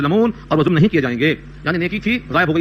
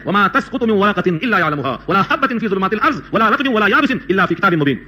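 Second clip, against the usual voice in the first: Quranic recitation; slower than usual. Acted. Recites verse from Surah Anam.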